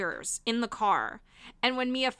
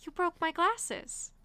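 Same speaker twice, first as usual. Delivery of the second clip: slow, higher mock-indignant whine; quoting Mia; 6 semitones higher, 4 dB quieter, slower than usual. Friend quoting Mia to Michael, slow mock-hurt. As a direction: drag it out, wounded and shocked. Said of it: "she goes".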